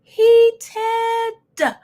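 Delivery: heated shout. Real, not acted. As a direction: burst out loud and high on heated. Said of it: "I was".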